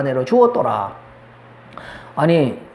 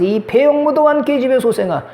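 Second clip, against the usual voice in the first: higher-pitched imitated curse; mock scolding father; 5 semitones higher than usual. Saul insulting his own child, mock angry. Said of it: "자식한테 말하면서".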